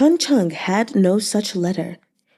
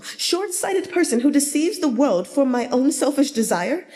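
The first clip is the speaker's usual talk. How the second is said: raised, pleading lament, a touch hammed-up; mild wailing; 6 semitones higher than usual. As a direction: beat the chest and plead loudly. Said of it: "he beat his chest and wailed louder".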